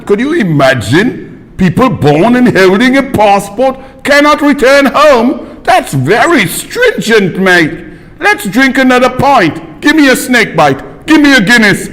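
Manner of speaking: hammed-up British pub accent, swooping pitch; exaggerated British accent, mock astonishment; drunk British students. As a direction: imitate tipsy British students. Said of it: "two drunk students say".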